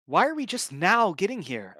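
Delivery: exclaiming. Acted. Oceanus freezing outside the castle doors, loud impatient exclaim. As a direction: blurt it out, cold and impatient. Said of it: "Oceanus exclaimed".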